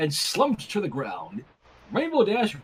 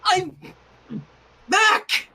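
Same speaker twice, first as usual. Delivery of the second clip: proclaiming; 12 semitones higher, 5 dB louder, slower than usual. A narrator's reading. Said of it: "Twilight proclaimed, weakly".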